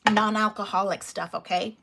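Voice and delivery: talking between sips; words around a mouthful of water; while sipping a drink. Real, not acted. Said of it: "Let's talk while I drink".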